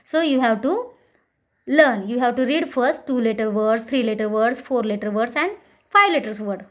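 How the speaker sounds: very slow teacher English. Shown as a demonstration. Teacher slowly explaining to students. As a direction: drag each word out for the class. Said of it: "slowly, slowly read करेंगे".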